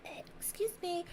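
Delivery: whispered burp excuse. Retold or imitated. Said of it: "people like".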